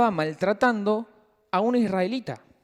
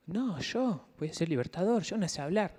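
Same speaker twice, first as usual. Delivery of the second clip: reluctant Moses; 3 semitones lower, 9 dB quieter than usual. Acted. Acts out Moses doubting God's call.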